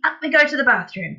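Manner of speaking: high, loud rallying call; eager cry. A narrator's reading. Father heading for the bathroom, crying out excitedly. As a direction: lead the charge cheerfully. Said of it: "cried Mister Killycranky".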